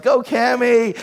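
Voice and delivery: calling to dog. Retold or imitated. Acts owner sending dog off.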